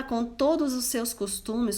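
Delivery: usual speaking voice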